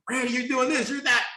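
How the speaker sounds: high-pitched imitation of flatterers; mock admiring praise. Voicing everybody praising him.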